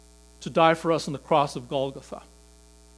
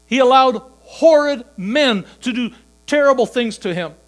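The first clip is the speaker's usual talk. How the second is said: much louder and higher, at full force; preaching shout; 8 semitones higher, 10 dB louder than usual. Acted. Preacher on the cross, loud impassioned cry. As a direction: thunder it out to the church.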